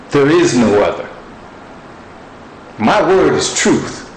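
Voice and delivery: mildly voiced booming God, sharp and commanding; stern God rebuking. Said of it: "He rebuked me sharply".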